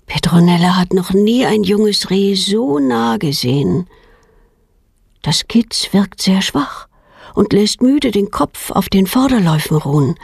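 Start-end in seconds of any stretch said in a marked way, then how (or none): none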